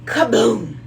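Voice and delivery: loud dramatic boom; booming crash. A narrator's reading. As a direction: punch the crash. Crash sound effect in story.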